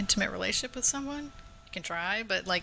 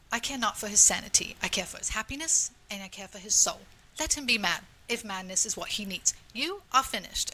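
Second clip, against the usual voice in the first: put-on British accent. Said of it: "wait, let me do the accent".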